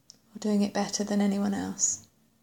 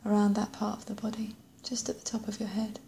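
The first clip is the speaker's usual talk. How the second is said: whispering; 6 dB quieter than usual. Acted. Meditation guide drops to whisper.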